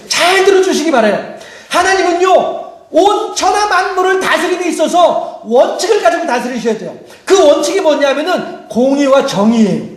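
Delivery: high, impassioned pulpit voice; forceful preaching. Real, not acted. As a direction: proclaim it to the congregation with urgency. Preaches at full force to congregation.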